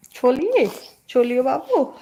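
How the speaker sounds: high-pitched coaxing to a little one. Real, not acted. Talking to babu about leaving, high coaxing baby talk.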